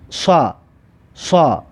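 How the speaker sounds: "صا" as a heavy, backed "sa"; sad with fatha. Shown as a demonstration. Teacher models sad with fatha, "صا" as heavy "sa". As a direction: say "صا" with the tongue pulled back.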